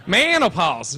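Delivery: Southern twang, vowels stretched; mock Southern pronunciation; Southern accent. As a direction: drawl the word like a Southerner. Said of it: "It sounds like a southern".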